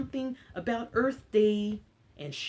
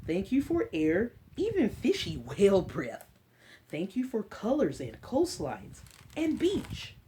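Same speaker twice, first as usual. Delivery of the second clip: put-on reading to children. Librarian reading an Earth book to kids, storybook voice. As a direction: read it gently to a class of little ones.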